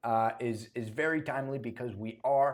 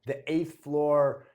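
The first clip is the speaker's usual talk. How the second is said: laughing; 6 dB louder, slower than usual. Real, not acted. Laughing while recalling tip.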